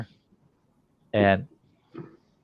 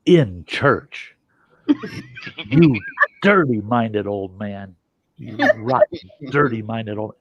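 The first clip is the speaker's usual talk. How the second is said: scolding wife. Retold or imitated. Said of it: "she'd go".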